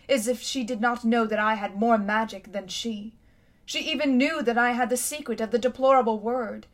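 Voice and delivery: a haughty queen remembering her city's might; lightly voiced imperious queen; proud queen. Queen rails against her sister.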